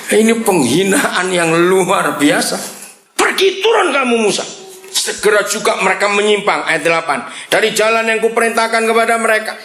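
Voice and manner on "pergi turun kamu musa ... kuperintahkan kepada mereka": much higher, commanding reading of God's words; preacher reading God's command to Moses, high and commanding; dramatic scripture reading. Acted. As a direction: proclaim it like God ordering Moses down. Reads God's angry speech.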